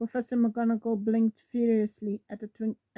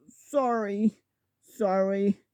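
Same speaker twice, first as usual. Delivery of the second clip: sobbing; much slower than usual. Acted. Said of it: "sobbed Hagrid".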